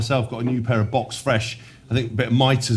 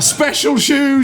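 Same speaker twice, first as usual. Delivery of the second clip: drawn-out, higher, louder mock drone; mocking teammate drone; 14 semitones higher, 5 dB louder, much slower than usual. Teammate mocking new trainers in a slow, higher drone. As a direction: drag out "special shoes" like a dim taunt. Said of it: "on repeat".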